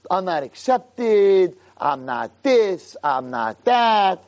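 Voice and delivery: slow, mock self-pitying whine. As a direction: drag it out, mocking the moaning.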